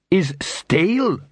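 slow, high troll complaint. Acted. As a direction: drag out stale like a troll.

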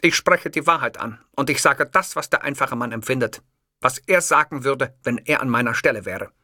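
mild lecturing dictator voice; lightly voiced Hitler. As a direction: speak with self-assured conviction. Hitler voiced in first-person story.

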